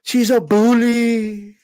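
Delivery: slow, drawn-out mock victim whine; mocking whiny fighter. Vlogger mocking a fighter's bullying complaint videos, slow whiny parody. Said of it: "Stop putting videos out".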